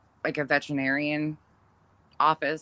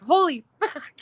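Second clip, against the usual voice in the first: retold yelp; 12 semitones higher, 5 dB louder than usual. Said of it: "and he's like".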